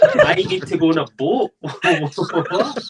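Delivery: high, loud, laughing; giggling in mock disbelief. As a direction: squeak it out through laughter. Imagined arrestee, laughing.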